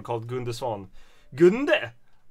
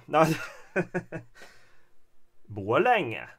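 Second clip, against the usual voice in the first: normal talking voice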